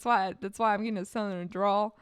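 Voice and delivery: a light southern drawl. Real, not acted. Californian blames Texan grandma for the southern drawl. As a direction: lean a little into the southern drawl.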